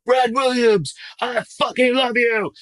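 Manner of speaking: high, loud adoring yell across the set; audience guy yelling. Retold or imitated. An extra in the crowd yelling his love at Brad, a high, loud yell. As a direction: shout it like a fan who can't hold back. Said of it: "a guy just yells out".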